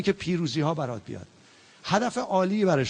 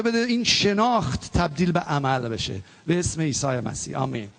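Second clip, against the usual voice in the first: closing prayer. Acted. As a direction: pray it earnestly and let it fade.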